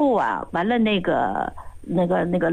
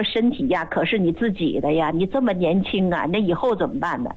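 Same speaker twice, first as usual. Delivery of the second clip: lightly acted coaxing, pitch settling a little; retold persuasion; 3 semitones lower than usual. Master doctor persuading a young patient to care for their health, coaxing. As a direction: counsel the young patient like a concerned elder. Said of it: "就劝人呐".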